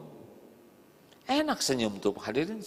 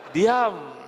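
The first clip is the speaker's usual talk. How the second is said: sudden hush; 7 semitones higher, 7 dB louder than usual. Acted. Silenced by question.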